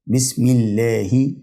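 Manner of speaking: "بسم الله" slowly, ending in hi; kasra on final ha. Shown as a demonstration. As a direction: draw out "الله" as llaahi. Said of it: "فبرضه بكسرها".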